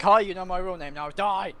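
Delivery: loud, high and threatening; menacing shout. Pretend. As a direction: yell it as a gloating threat. Threatens in battleship.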